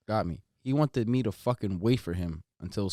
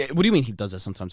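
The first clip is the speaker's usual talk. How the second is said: indignant; 6 dB louder, faster than usual. Retold or imitated. Retold indignant question.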